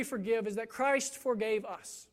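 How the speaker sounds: hushed whisper on "Christ forgave us", "Christ" leaned on. Shown as a demonstration. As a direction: let "Christ forgave us" drop to a reverent whisper. Key reason spoken hushed.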